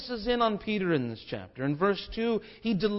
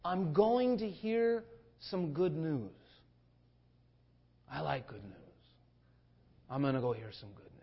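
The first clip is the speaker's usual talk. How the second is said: cheerful witness. Pretend. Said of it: "we said to that person".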